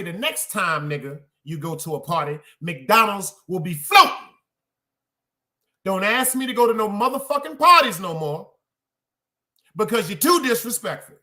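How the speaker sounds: lightly voiced scolding mom; stern mother. Mother scolding her late son, mild stern mother voice. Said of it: "That was my mother".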